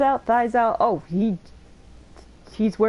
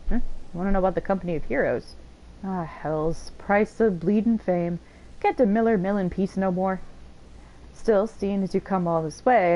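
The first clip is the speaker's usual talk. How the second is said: lightly voiced grumpy old miller, unhurried; a grumbling old miller, only slightly put on; gruff old miller. Reads old miller NPC lines.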